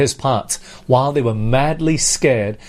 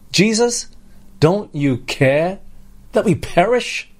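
frustrated accusation; 6 semitones higher than usual. Retold or imitated. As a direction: throw the blame at Jesus. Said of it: "It could have actually been said a different way".

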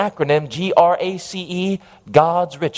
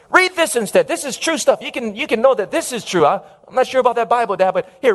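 embarrassed son; 5 semitones higher, faster than usual. Acted. Son pushes atlas on father.

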